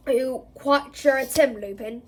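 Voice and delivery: gruff suspicious growl; growling Moody. Acted. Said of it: "he growled".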